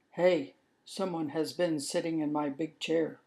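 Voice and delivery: a hint of a gruff father mouse, mildly indignant; Papa Mouse in a mildly put-on voice; lightly voiced Papa Mouse. Papa Mouse finds someone sat in his chair, lightly voiced.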